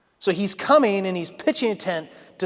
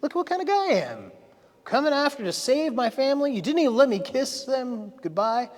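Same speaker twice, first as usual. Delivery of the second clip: higher, quick, self-praising show-off voice; boastful Laban; 5 semitones higher than usual. Retold or imitated. Laban boasting about himself to Jacob, mock showy. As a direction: puff himself up like a showman. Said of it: "He's painting a picture of how good he is".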